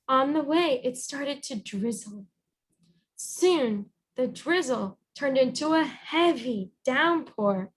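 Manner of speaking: lively picture-book narration with light character lines; storybook reading. Acted. Teacher reading the Anansi tale aloud to the children, lively storybook voice. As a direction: read it like story time for kids.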